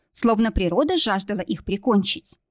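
plain reading voice

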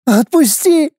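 high, frantic female cry; desperate woman. Acted. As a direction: gasp out a frantic plea. Wife fighting in water. (отчаянный женский крик)

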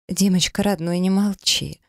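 высоким, мягким, медленным женским голосом; ласково уговаривает мужа, выше и медленнее; мягкий тон жены. A narrator's reading. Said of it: "мягким тоном заговорила". (мягкий, вкрадчивый голос жены)

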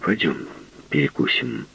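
quiet flat plea; flat repeat. Acted. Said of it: "Он повторил только".

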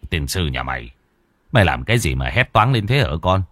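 a low grumble turning into a fast scolding question; grumbling. Acted. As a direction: grumble at the son, annoyed at being woken. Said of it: "Ông Hùng nhìn thằng con lầu bầu".

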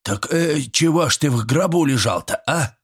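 high-pitched squealing villager; squealed, puzzled questioning. A narrator's reading. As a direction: pester him in a high, squeaky voice. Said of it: "заверещал Митрич".

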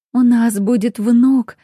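slow, loud, joyful announcement; beaming with joy. A narrator's reading. Lady announces a grandson to her husband, glowing with joy. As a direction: savor each word of the happy news. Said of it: "расцвела она счастьем".

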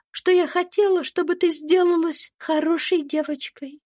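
put-on kind little girl comforting a friend; gentle young girl. A narrator's reading. Little Eva gives Topsy a lock of hair, high and kind.

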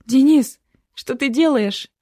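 high, loud cry of alarm. A narrator's reading. Narrator cries out to Denis in panic, loud alarmed cry. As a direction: cry out his name in shock. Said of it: "воскликнула я".

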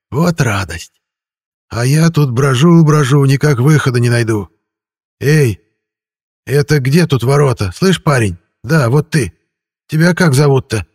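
high, loud pestering ghost. A narrator's reading. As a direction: call out like a raspy vagrant spirit. Vagrant ghost pestering the hero.

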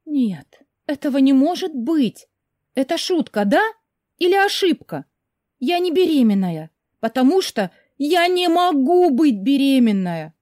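high, loud panicked outburst, rising into shrill wails. Acted. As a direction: she spirals into panic over the test. Heroine panics over pregnancy.

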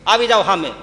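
high, loud taunt; defiant challenge. Acted. Youth taunting the attackers, loud and defiant. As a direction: dare them to come on. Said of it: "અને કીધું".

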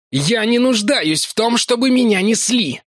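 Larry hissing at being carried; angry hiss. A narrator's reading. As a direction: spit it through clenched anger. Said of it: "прошипел О'Кив".

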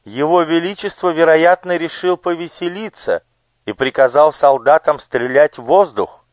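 high, bright-voiced curious lady; noble lady. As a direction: voice the gracious lady on horseback. (знатная дама, высоким голосом)

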